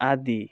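আদি with a full i after the d; wrong pronunciation. Shown as a demonstration. Teacher shows how not to read it, added vowel. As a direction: turn the echo in আদি into a clear i. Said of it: "আবার এমনভাবে পড়ব না".

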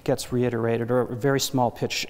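reiterate one pitch in a monotone; demonstrating a sad monotone. Shown as a demonstration. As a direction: keep pitch movements very small. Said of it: "you tend to have more of a monotone voice".

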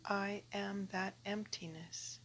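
calm recitation with long pauses; prayer reading. Acted. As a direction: read it reverently, pausing after each phrase. Reads a translated prayer.

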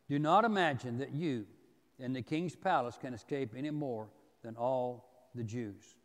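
measured Bible reading in short phrases; scripture reading. Acted. Preacher reads Mordecai's reply to the congregation, scripture reading. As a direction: read the verse out solemnly, phrase by phrase.

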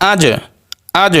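আজ with the final জ released in a bounce; qalqalah bounce. Shown as a demonstration. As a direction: jolt the closing জ of আজ. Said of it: "এগুলো একটু ধাক্কা দিয়ে পড়তে হবে".

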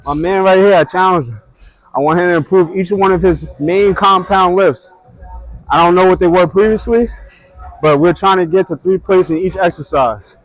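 loud, hyped call-out to viewers; loud announcement. Real, not acted. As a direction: announce it loudly to the crowd.

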